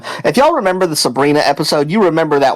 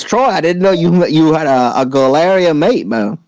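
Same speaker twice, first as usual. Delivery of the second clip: put-on British accent; 2 semitones higher than usual. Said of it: "distinct yet familiar accent".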